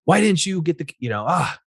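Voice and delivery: a lightly played complaining wife; wife scolding husband before work, mock complaint; nagging wife. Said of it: "when my wife tests me".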